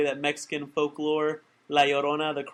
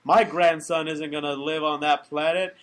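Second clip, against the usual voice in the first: raised-voice acted squabble, higher and louder; heated back-and-forth, hammed up; mock arguing; 4 semitones higher, 6 dB louder than usual. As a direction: act out an indignant family argument. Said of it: "And they're arguing".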